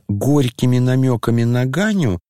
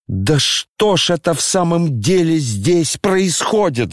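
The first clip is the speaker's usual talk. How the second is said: flaring up; 6 semitones higher than usual. A narrator's reading. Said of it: "закипел вдруг Коля".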